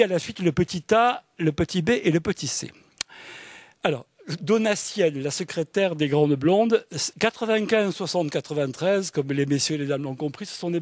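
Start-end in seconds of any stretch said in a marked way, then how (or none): none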